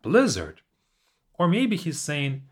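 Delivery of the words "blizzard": addressing the evening. Retold or imitated. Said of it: "addressing the evening".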